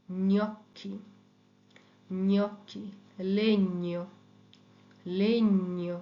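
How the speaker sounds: gnocchi and lavagna said with a palatal ny sound; Italian gn word drill. Shown as a demonstration. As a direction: say gnocchi as nyokki. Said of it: "জিএন এর সাউন্ডটা হয় ঞ".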